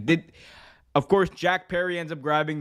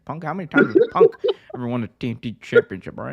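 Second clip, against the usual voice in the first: louder, laughing mock wrestling promo; hammed-up promo with a laugh; mock promo rant; 5 dB louder, faster than usual. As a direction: bark it like a heel cutting a promo, cracking up. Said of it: "I'm Jack Perry".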